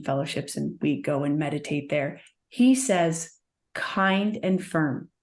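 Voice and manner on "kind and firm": slowly, each word weighed; slow and deliberate. Shown as a demonstration. Guru's motto given slowly and deliberately. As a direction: kind and firm, spelled out slowly. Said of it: "That's my motto".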